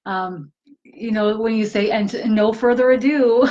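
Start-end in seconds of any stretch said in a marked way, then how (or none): 1.9-3.5 laughing through a mock announcement; giggling as she gives the intro line. Gaia teasing the host, laughing mock announcer voice. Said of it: "She's like".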